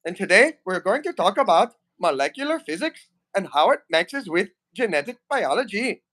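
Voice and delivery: lightly put-on Indian accent; a mild Indian accent, hamming up a lecturer; Indian accent character. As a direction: Indian accent comedy character introducing himself. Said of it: "gonna create a character named Manvant".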